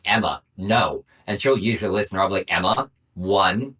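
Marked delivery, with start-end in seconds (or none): 0.0-1.0 put-on slow, firm warning to a child; firm parental warning. 2.5-3.7 slow, controlled first count; measured countdown warning. Retold or imitated. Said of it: "I, I emphasize".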